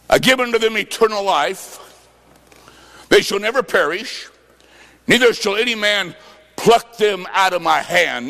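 measured, solemn verse reading; scripture reading. Acted. Preacher reading the promise to the man, solemn.

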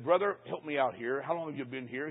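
soft, hushed aside to the song leader. Retold or imitated. Preacher leaning over to the song leader on the platform, hushed. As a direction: murmur it so the crowd can't hear.

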